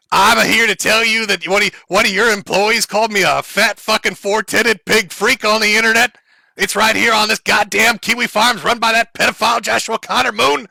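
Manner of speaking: imitating a furious man yelling at HR; half-hearted mock tirade, voice a bit strained; mock screaming rant. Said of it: "He's just screaming".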